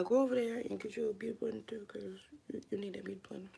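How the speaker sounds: fast secret whisper. Acted. Vlogger whispers a makeup tip to viewers, quick and hushed. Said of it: "I'ma just whisper it like that".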